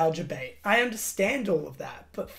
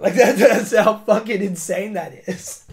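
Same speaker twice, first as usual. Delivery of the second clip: laughing it off; 9 dB louder than usual. Real, not acted. Laughs at his own emotion.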